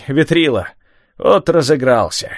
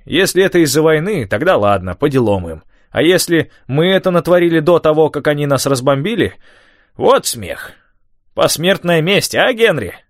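put-on high, worked-up old man rant; agitated old man; 7 semitones higher, 4 dB louder than usual. A narrator's reading. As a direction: rant to keep the boy going. Tom ranting about weather.

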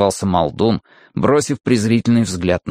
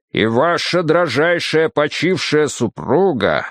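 booming slow beast-man voice; rumbling brute; 5 semitones higher than usual. Acted. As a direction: rumble it like an avalanche. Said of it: "голос его прогрохотал, как лавина".

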